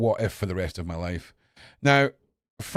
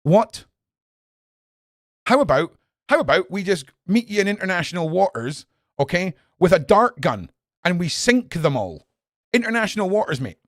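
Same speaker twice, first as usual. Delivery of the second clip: 1 indignant shout; 5 semitones higher, 5 dB louder than usual. Real, not acted. Angry reaction to headline.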